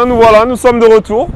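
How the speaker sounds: loud, high mock-grand return; showy announcement.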